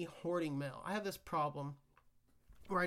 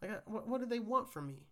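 retold panic; 5 semitones higher than usual. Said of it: "I was freaking out".

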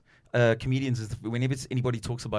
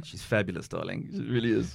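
softer, lower, camp diva tone; a light camp Regina impression; Regina's voice; 3 semitones lower, 4 dB quieter than usual. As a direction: purr it like a fabulous diva. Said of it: "Her name's Regina".

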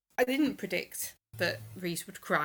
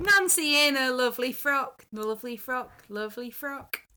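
cooing; 6 semitones higher, 5 dB louder than usual. Real, not acted. Cooing over Nancy's frock.

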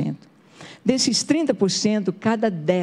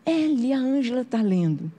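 mother calling out; 5 semitones higher than usual. Retold or imitated. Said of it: "a mamãe tava lá no tanque e falou".

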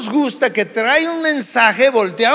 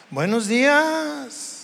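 slow, soft Buenos días, days drawn out; sweet good morning; 3 semitones higher, 4 dB quieter, slower than usual. Shown as a demonstration. Pastor showing a friendly greeting, slow and soft. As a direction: greet kindly and unhurried. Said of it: "el tono de voz nos dice mucho".

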